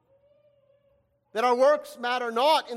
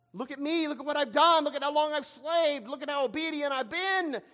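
higher-pitched voice pleading his own record; indignant self-justification; 4 semitones higher than usual. Acted. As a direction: press each claim on the father, pitched up. Acting the older son boasting to father.

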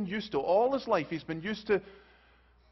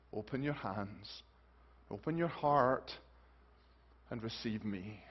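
softer, lower, tender appeal; gentle invitation; 6 semitones lower, 5 dB quieter than usual. Acted. Preacher voicing Jesus answering Nicodemus, gentle invitation. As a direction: invite them softly, with pauses.

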